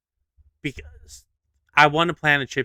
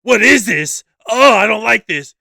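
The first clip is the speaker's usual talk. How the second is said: much higher, louder, slow whiny complaint; whiny skit character; 9 semitones higher, 11 dB louder than usual. Retold or imitated. TikTok skit character complaining about humid weather, high whiny voice. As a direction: play a fussy guy hating the humidity. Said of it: "And he goes like".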